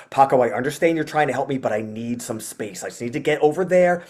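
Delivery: earnest plea in a normal grown-up voice; serious talk. Retold or imitated. Frustrated owner asking his dog for space, serious. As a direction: reason with a dog as with a person. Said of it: "I'll change my voice to talking to him very seriously".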